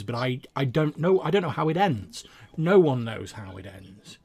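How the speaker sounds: lightly voiced storyteller, stammering and emphatic; halting, flowery plea from a humble bard; eager bard. Bard begging to join the adventurers, eager and stammering.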